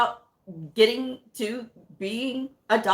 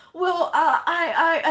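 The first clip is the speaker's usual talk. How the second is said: imitating a caught-out doctor, higher and louder with a laugh; flustered laugh; 7 semitones higher, 4 dB louder, slower than usual. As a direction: stammer through an embarrassed laugh.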